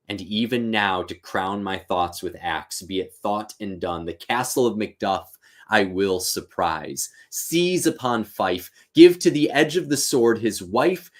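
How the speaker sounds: a touch of a grim, rising tyrant; Macbeth's vow. Acted. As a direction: read it as a growing, resolved threat. Macbeth vows slaughter.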